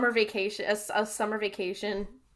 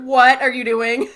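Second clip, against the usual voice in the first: laughing quote; 12 dB louder than usual. Retold or imitated. Sam's alarmed quote, laughing.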